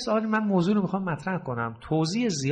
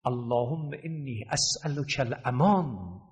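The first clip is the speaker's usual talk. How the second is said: prayer recitation; 2 semitones lower, slower than usual. Acted. Arabic supplication recited.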